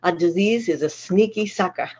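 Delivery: sneaky sucker in broad Boston speech; Boston accent. Shown as a demonstration. Speaker quoting a friend from Boston to the group, Boston accent. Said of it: "I gotta say it in our accent".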